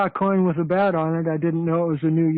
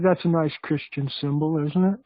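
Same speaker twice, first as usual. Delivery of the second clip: sarcastic. Real, not acted.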